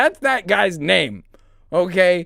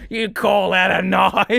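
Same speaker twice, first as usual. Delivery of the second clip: Crocodile Dundee quote. Retold or imitated. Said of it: "maybe it's Crocodile Dundee".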